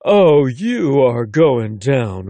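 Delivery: slow, loud mock threat; playful proclamation. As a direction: declare it like a playful challenge. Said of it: "Shay proclaims".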